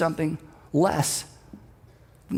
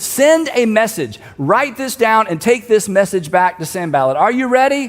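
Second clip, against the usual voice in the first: mildly raised voice, imitating a call from above; mock shout down; 3 semitones higher, 4 dB louder than usual. Nehemiah to the messenger below, lightly shouting down. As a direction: project it down, a half shout. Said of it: "And so he shouts down".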